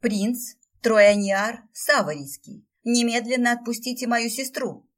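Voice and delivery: loud, commanding growl; growled order. A narrator's reading. Sister growls at the prince to release her. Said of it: "прорычала Стефи".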